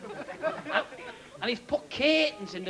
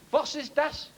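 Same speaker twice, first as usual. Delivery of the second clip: comic German tourist voice, a bit higher; mock German accent; 4 semitones higher, slower than usual. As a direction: ham up a German asking a question. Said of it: "this German".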